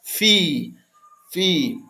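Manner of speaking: "Fi" with an F sound; "fi" with a soft F. Shown as a demonstration. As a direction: say "fi", F instead of P. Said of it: "vai dizer como fosse um F".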